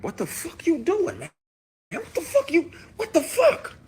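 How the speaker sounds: high-pitched yelling in disbelief; squealing, laughing outrage; shocked yelling. Retold or imitated. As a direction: shriek it out, appalled. Retold freakout at groping man.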